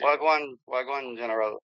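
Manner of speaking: lightly put-on Jamaican patois; a hint of Jamaican patois greeting. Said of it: "let the white boy speak a little patois".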